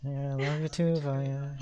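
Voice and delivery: in-character reply. Acted. Yuka replying to Vaya who is smothering her, in-character voice. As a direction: answer as the girl being smothered. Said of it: "and she's like".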